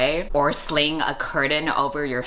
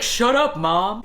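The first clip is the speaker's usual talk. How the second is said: put-on bratty teen; 6 semitones higher, slower than usual. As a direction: snap at mom like a moody teenager. Teen snapping at her mom.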